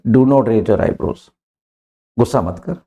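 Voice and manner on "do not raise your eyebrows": each word spaced out slowly; slow model sentence. Shown as a demonstration. Teacher to students, modelling the phrase slowly. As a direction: say it slowly so students can repeat. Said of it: "तो अपन क्या बोलेंगे".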